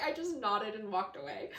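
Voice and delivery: the author's line broken up by laughter; amused, half-laughing retelling; laughing through it. Retold or imitated. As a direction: laugh while you say it. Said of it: "He's like".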